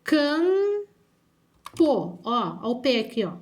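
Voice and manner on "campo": CAMPO drawn out as "cammm... po"; syllable by syllable. Shown as a demonstration. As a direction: stretch the first syllable of campo, pause before "po". Sounding out a word while writing. (campo bem separado em sílabas)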